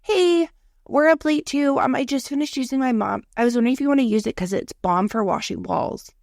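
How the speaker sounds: a hint of a perky neighbour; friendly neighbour. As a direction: lightly voice a chatty neighbour. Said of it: "She's like".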